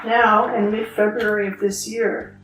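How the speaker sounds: measured reading aloud of a personal essay; story narration. Acted. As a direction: read your own wry piece to a listener, evenly paced. Reads her written piece aloud.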